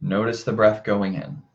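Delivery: calm, measured meditation guidance with long pauses; guided meditation. Acted. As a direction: gently guide listeners to their breath, unhurried. Leads a breathing meditation.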